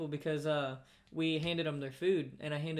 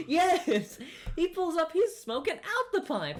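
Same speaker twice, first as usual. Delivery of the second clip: laughing excitement; 11 semitones higher, 6 dB louder than usual. Real, not acted. Still laughing while retelling.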